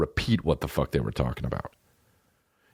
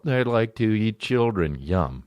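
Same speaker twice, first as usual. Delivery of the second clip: mock robot voice; slower than usual. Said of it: "they have a robot voice go".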